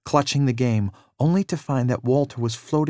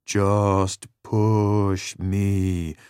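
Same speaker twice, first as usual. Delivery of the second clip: yelling; 3 semitones lower, much slower than usual. Acted. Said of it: "Danny yelled again".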